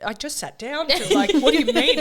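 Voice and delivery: high, loud, laughing "what do you mean?"; laughing disbelief. Retold or imitated. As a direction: play her stunned and amused.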